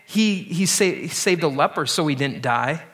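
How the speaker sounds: lightly voiced scoffer, listing miracles with a sneer; a hint of a mocking bystander; mock taunting. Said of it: "making fun of Jesus".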